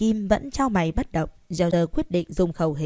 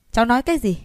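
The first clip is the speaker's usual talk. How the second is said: put-on loud, high, shocked old man; outraged disbelief; 5 semitones higher, 4 dB louder, much faster than usual. A narrator's reading. Grandfather hearing his grandson nearly hospitalized, shocked. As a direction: demand it in sudden alarm.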